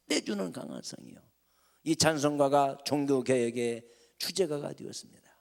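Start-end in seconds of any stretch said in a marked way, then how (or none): 0.1-1.2 the same words repeated soft and hushed; hymn line echoed softly. Shown as a demonstration. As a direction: let the echo fall quiet and inward. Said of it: "그때 부른 찬송이".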